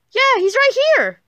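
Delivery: high-pitched shouted protest; loud, squealing denial; frantic insistence. Acted. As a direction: yell back, desperate to be believed. Insists against a doubting friend.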